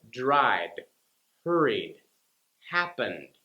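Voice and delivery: "dried," "hurried," "happened." each ending on a voiced d. Shown as a demonstration. Teacher giving D ending examples. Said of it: "with the D sound at the end".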